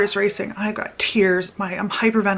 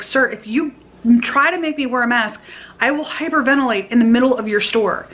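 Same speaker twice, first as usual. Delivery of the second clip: higher-pitched, pointed warning; firm retort; 4 semitones higher, 4 dB louder than usual. Retold or imitated. Customer warning store man about masks, firm retort. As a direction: imitate standing your ground.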